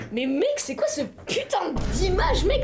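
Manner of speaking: big exaggerated outrage; overreacting American style. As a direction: overact the shock. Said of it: "ils seraient en mode".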